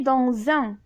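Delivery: "dans un" linked with a z, dan-zun; liaison. Shown as a demonstration. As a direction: join "dans un" with a z sound between. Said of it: "On fait la liaison". (« dans un » avec liaison en z, dan-zun)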